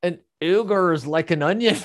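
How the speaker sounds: put-on a laughing stab at a Scottish accent; half-hearted Scottish accent, breaking into laughter; attempted Scottish accent. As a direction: try a Scottish brogue and crack up. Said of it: "Scottish accent".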